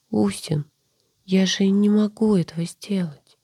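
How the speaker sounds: high whisper, muffled into chest; face in shoulder. A narrator's reading. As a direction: mumble it into his chest. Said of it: "пробормотала она ему в грудь".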